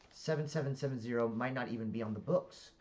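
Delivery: put-on UK-accented line, rising at the end; Fleming in British accent. Colleague doubting the suspect is on record, British accent. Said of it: "I speak in the accents 'cause it's U K".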